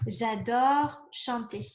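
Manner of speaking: J'adore chanter said slowly, word by word, for writing down; slow dictation. Shown as a demonstration. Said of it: "Let me write it down".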